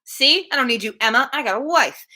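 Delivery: lightly voiced smug husband brushing her off; mock Mr. Elton. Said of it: "just like".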